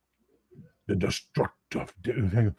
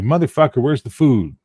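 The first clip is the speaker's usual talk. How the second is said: voicing hungry cats; 6 semitones higher, 8 dB louder than usual. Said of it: "'cause it's like".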